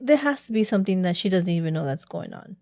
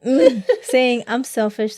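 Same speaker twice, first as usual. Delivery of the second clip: laughing; 3 semitones higher, 5 dB louder, slower than usual. Real, not acted. Laughing at the accusation.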